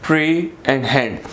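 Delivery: कॉम, प्री and हैंड each set apart; deliberate teacherly syllable split; three separate sections. Shown as a demonstration. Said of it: "तीन हमारे पास sections बने".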